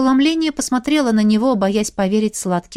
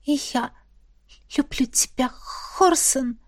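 high, soft trembling confession; trembling whisper; 3 semitones higher, 5 dB quieter than usual. A narrator's reading. Vlasta answering Horsen's confession, soft high trembling. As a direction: barely dare to say it. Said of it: "сорвалось с моих дрожащих губ".

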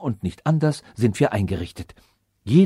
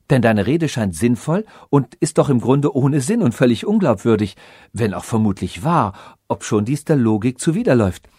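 louder, grand royal speech; lively princess; 3 dB louder than usual. Acted. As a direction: hold court with mock logic. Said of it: "rief Kristalla".

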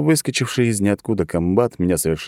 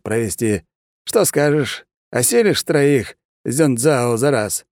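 higher, brisk scheming colonel; an officer pushing a deal; eager colonel; 6 semitones higher than usual. A narrator's reading. Colonel voiced by narrator.

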